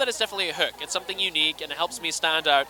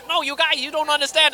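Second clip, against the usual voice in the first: high, put-on voice of a cornered suspect; imitating a suspect on a TV cop show; mock TV suspect; 9 semitones higher, 4 dB louder than usual. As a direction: play the cornered suspect for laughs. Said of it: "they corner him, like".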